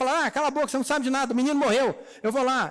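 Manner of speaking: wife brushing off her husband, half-hearted mock anger; pretend snappy retort. Mother snapping at her husband, lightly mock angry. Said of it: "Ela não falou nada disso".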